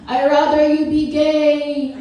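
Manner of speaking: loud, slow mock-disapproving dad; imitating dad from the background; dad impression. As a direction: call it out as dad, dragging each word. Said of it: "hear my dad in the background go".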